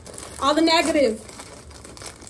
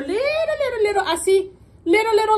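high, squeaky little repeated higher each time; mock tiny squeak; 8 semitones higher, 5 dB louder than usual. Vlogger mocking other restaurants' tiny shrimp, squeaky high voice.

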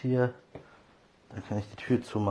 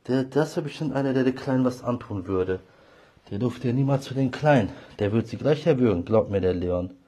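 mock-outraged irony; 3 semitones higher, 5 dB louder than usual. Real, not acted. Ironic rant about the cat.

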